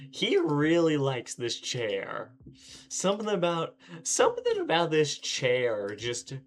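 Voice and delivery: sarcastic. Real, not acted. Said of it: "sarcastic slow commentary".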